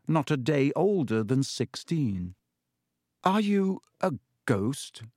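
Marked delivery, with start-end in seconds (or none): 3.2-5.0 put-on higher, slow, hesitant boy's question; uncertain. A narrator's reading. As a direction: ask it unsure, as a frightened boy. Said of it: "Harry said uncertainly".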